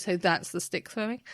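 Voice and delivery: lightly voiced sarcastic dog; a hint of a deadpan dog. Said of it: "You've just given the dog the voice now".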